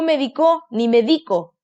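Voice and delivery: médico and medico said with the stress misplaced; wrong stresses. Shown as a demonstration. Teacher showing children wrong stresses. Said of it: "No digo".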